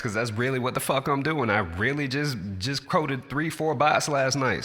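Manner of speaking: excited. Real, not acted. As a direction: push it up, fired up. Boasting about his work.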